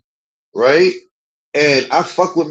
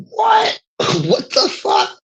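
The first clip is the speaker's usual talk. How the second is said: much higher, startled What with a laugh; baffled friend; much slower than usual. Retold or imitated. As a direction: act out her stunned, laughing disbelief. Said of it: "she like".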